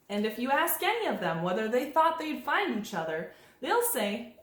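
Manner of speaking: expressive picture-book narration; reading to children. A narrator's reading. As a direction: read it aloud with lilting pitch swings.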